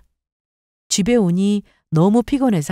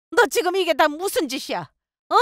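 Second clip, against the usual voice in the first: angry mother-in-law yelling; 9 semitones higher, 4 dB quieter than usual. A narrator's reading. Mother-in-law on the phone to her, raging. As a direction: rage down the phone at a high pitch. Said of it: "어머님이 소리를 지르고 난리도 아니었어요".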